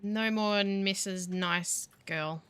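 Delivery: slow, drawn-out mock threat; mock threatening. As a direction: try to sound tough and fail. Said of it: "Sounds a lot less threatening".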